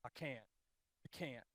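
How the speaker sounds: very soft, low, defeated voice; quiet, drained seasick admission; weak surrender. Retold or imitated. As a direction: barely get it out, too sick to go on. Seasick friend gives up.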